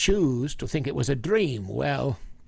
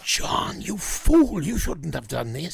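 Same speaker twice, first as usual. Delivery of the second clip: angry rebuke; 3 semitones higher than usual. Acted. Professor scolds John.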